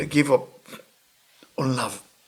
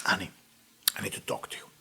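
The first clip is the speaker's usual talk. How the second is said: hushed; 8 semitones lower, 12 dB quieter, faster than usual. Retold or imitated. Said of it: "I say".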